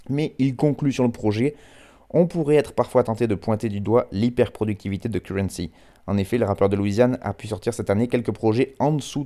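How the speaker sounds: measured radio read of a written review; reading a review aloud. Acted. Radio host quoting a website's album review, in a presenter's reading voice.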